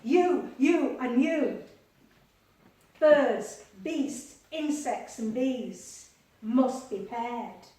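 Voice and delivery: loud commanding call; booming foreman calling out; bossy ark builder. Acted. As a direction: order the animals into line. Builder pointing out animals.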